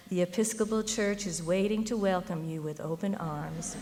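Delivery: a light Southern drawl on a colleague's friendly invitation; gently mimicked Southern drawl; slow Southern drawl. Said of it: "slow Southern drawl".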